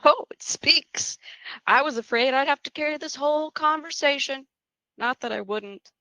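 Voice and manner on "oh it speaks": slow, mock-amazed whisper; teasing whisper. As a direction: tease her for finally talking. Teasing the silent new girl.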